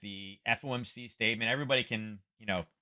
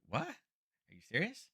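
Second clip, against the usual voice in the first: a higher, slow, mock-stunned "are you serious"; incredulous; 5 semitones higher, 7 dB quieter, much slower than usual. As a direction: drag it out in mock disbelief. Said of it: "I'm like".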